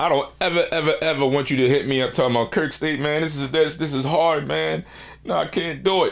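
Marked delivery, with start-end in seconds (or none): 2.5-6.1 whiny, complaining voice. Imitating a beat maker who complains it's too hard: imitating a whiny beat maker. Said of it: "You sound like a whiny little beat maker".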